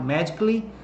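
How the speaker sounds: "magically" as three syllables, "magic-lee"; dropped A. Shown as a demonstration. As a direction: skip the A in "magically". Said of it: "tira fora o A aqui".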